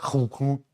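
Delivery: mimicked clunky machine noise; imitated old card machine. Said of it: "it wasn't like a".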